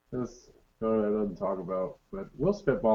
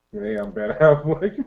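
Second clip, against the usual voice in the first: Ben Affleck impression; 4 semitones higher, 5 dB louder, slower than usual. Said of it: "I can't do with Ben Affleck".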